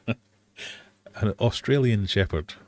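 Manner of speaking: slow, hesitant stab at Australian; attempted Australian accent. Quiz host retrying a dog breed, attempted Australian accent. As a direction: try Australian again slowly after a laugh. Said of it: "That was my fabulous Australian".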